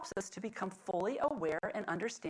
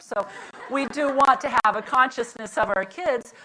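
usual speaking voice

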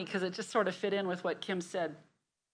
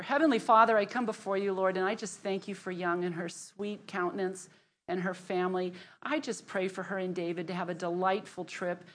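prayer; 3 semitones lower than usual. Acted. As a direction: pray over her gently and sincerely. Leads a prayer.

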